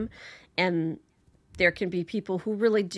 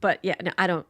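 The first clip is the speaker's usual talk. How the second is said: ordinary talk, nothing marked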